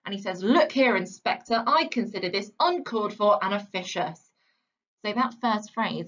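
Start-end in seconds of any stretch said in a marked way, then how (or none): 0.4-1.6 a touch of bluster on Look here; mildly aggressive quote. Retold or imitated. Teacher quoting the angry father to the inspector, Look here louder. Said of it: "he gets quite aggressive". 1.7-4.3 a touch of Burling's bluster, Look here loud; lightly voiced pompous father snapping back; mild mock anger. Teacher quoting a rich father scolding the inspector, mildly aggressive. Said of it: "he gets quite aggressive".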